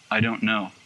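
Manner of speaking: low, soft, helpless reply; hushed and small; subdued answer. Retold or imitated. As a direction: admit it quietly. Shaken, answering the little voice.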